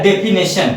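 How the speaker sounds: डेफिनेशन said "de-fi-NE-shan"; mispronunciation. Shown as a demonstration. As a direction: put "ne" for "ni" in डेफिनेशन. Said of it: "ये आपका गलत हो जाता है".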